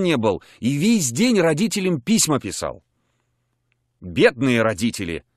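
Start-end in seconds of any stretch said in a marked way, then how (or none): 4.0-5.2 sighing. Acted. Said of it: "вздохнула полковница".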